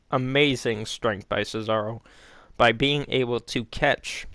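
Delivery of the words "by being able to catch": hiccups. Real, not acted. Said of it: "I'm having the hiccups".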